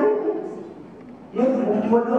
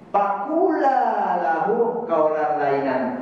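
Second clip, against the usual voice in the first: gentle recitation; much slower than usual. Shown as a demonstration. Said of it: "Ngomongnya lemah lembut ya". (dibaca pelan dan lembut)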